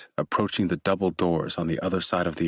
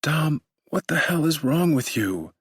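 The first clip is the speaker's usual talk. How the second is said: high, tearful wife's screech; 10 semitones higher than usual. Acted. Wife yelling at her husband through tears, screeching. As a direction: shriek it at him in alarm. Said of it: "she screeches".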